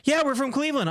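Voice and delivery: high, chirpy imitation of the boys; mocking the graduates. Imitating the graduates bragging about Cleveland, high mocking voice. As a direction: parrot them in a sing-song. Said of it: "they're like".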